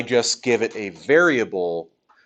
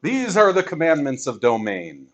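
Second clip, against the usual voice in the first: prophet proclaiming; 2 semitones higher than usual. Acted. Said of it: "Mathocles comes down from the mountaintop and says".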